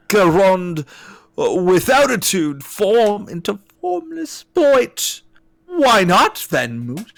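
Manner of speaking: hammy, drawn-out verse with high swoops; stretched, overblown poetry reading; theatrical poetry recital. Acted. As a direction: declaim bad verse grandly. Reads alien poem aloud.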